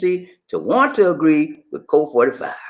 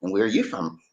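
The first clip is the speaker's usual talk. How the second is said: put-on New York accent; 2 semitones lower than usual. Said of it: "they have that New York accent".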